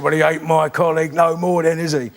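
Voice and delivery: lightly voiced deadpan comic; dry, unimpressed put-down; a hint of a sardonic old pro; Mike Reid voice. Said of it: "And he said".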